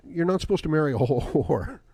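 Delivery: laughing as the last word lands; breaking into laughter. Real, not acted. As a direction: try to say it, then crack up. Cracks up reading a comment.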